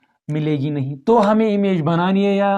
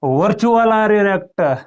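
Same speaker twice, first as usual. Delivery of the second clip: slow dictation; much slower than usual. Shown as a demonstration. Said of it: "हम लिखेंगे".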